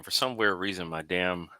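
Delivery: talking through crunching chips. Real, not acted. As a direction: mouth full of chips. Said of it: "sorry, I'm eating chips".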